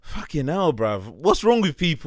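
loud, shocked fucking hell bruv; outraged disbelief. Real, not acted. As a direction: react in disgusted disbelief. Outraged at lace front beards.

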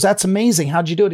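imitating an amazed patient; impressed surprise. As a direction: marvel at the dentist's skill. Patient marvels at dentist.

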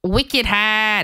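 "Wicked hard" copied in a hesitant Boston accent; attempted Boston accent. Shown as a demonstration. Cohost copies host's Boston accent, tentative Boston accent. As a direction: try the Boston accent back, hard as hahd. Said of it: "we haven't done a Boston accent once".

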